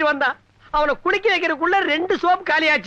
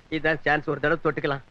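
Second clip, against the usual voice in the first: much lower, softer muttered aside to himself; sly aside; 11 semitones lower, 6 dB quieter than usual. Acted. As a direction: whisper the secret thought to yourself. Aside to himself while flirting.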